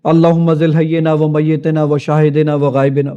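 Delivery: slow, measured Arabic recitation; drawn-out rote prayer. Retold or imitated. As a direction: recite the learned prayer slowly and steadily. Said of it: "یہاں تو دعا پڑھتے ہیں".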